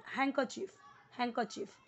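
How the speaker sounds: हैंकरचीफ said "hen-ker-cheef", no d; हैंकरचीफ with the d left out; silent d. Shown as a demonstration. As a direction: drop the d in हैंकरचीफ. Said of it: "हैंडकरचीफ नहीं बोलना".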